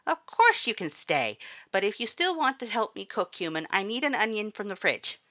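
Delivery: high, loud, eager skeleton voice; loud cheerful Papyrus. A narrator's reading. Papyrus welcomes the human to stay, loud high cheerful voice. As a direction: boom it out like a proud, cheerful skeleton.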